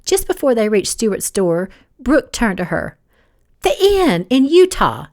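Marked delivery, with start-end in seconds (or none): 3.6-5.1 slow, higher, frowning recall; dawning suspicion, drawn out; frowning recollection. A narrator's reading. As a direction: place a half-remembered face, slowly. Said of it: "She frowned".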